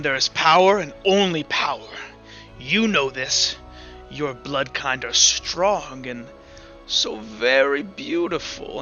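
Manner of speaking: lightly voiced villainous queen, drawn out; evil queen. Queen appraising those of strong blood, sinister and deliberate. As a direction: savour the words slowly like a scheming ruler.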